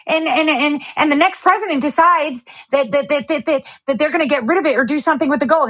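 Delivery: high stammering reporter; lightly hammed-up stammer; mock stammering reporter. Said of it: "Let me give you the skit".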